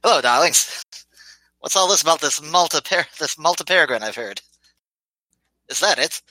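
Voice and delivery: high, airy society charmer; breathy vintage purr. Acted. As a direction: purr it out like a tipsy socialite.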